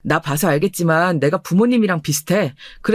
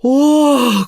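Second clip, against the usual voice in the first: a loud, wondering "wow"; stunned "와," louder and higher; amazed gasp; 5 semitones higher, 5 dB louder than usual. Acted. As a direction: blurt it out in astonishment. Wife stunned by husband's wealth.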